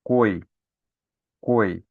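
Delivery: teacher isolating the syllable coi; syllable demo. Shown as a demonstration. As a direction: sound out coi, leaning on the o. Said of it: "quando você fala a sílaba".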